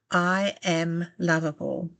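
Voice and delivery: slow, deliberate and spoken aloud; slow affirmation aloud. Shown as a demonstration. Guide showing the listener how to say it aloud, slowly. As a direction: model the mantra for them to copy. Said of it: "I want you to say out loud".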